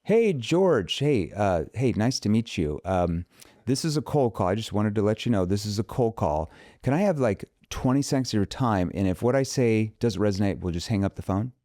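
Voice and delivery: bright, high, polite cold-call opener; cheerful scripted phone greeting; second cold-call approach. Shown as a demonstration. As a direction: ask for twenty seconds, upbeat and high.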